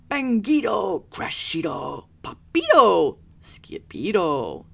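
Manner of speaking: loud, high, excited chant; wild exclamations. A narrator's reading. Noisy chant from closet.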